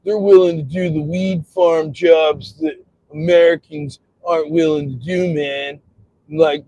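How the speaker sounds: lightly voiced rambling stoner; a hint of a stoned complainer; stoner impression. Imagined stoner worrying about weed farm jobs, lightly put-on stoner voice.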